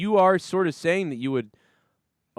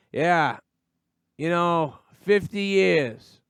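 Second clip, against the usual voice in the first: put-on mopey drunk voice; 4 semitones higher, much slower than usual. Imitating a sad drunk.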